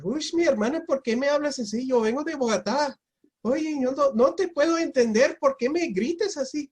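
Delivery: very high, sing-songy Bogotá Spanish; Bogotá accent. Retold or imitated. Traveler placating a yelling lady, sing-songy Bogotá accent. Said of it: "imitate a pretty good accent from Bogota".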